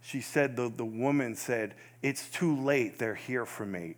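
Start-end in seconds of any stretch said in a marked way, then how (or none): 2.0-3.9 dying whisper. Retold or imitated. Dying woman's last words.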